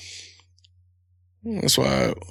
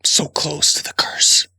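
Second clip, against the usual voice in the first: mock near-curser; 5 semitones higher, 3 dB louder, slower than usual. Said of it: "tiptoe right on it".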